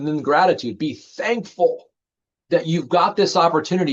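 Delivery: plain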